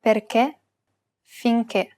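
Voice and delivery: "Perché, finché" ending in a stressed closed E. Shown as a demonstration. Teacher demonstrates acute accent, "Perché, finché" with closed final E. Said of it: "pronounce it as a closed E".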